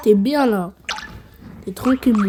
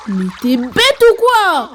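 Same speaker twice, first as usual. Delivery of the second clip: exasperated; 5 semitones higher, 5 dB louder, slower than usual. Real, not acted. Exasperated at character.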